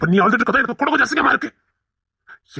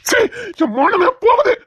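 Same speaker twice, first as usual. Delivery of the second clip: outraged shout; 3 dB louder than usual. Acted. Husband shamed, raging.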